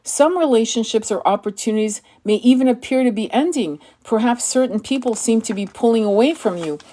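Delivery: measured, solemn inspirational read; calm, deliberate spiritual reading; oracle card reading. Acted. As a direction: read it like a sacred message.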